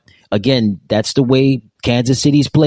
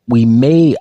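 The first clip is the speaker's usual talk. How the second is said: may punched louder; stress on may; 4 dB louder than usual. Real, not acted. Commentator stressing may on his football show. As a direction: lean on the word may. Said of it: "I emphasize the word may".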